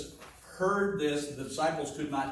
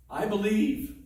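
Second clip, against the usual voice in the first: fervent cry; 6 semitones higher, 4 dB louder than usual. Acted. Voicing the father's plea.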